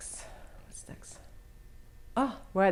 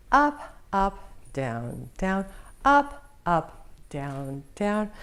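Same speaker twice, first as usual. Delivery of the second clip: calling dance moves; slower than usual. Shown as a demonstration. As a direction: let pitch follow each move. Calls dance moves, pitch follows direction.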